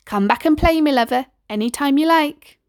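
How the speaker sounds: kindly West Country mum; warm farewell. Acted. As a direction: invite him back tenderly. Neighbour says goodbye to child.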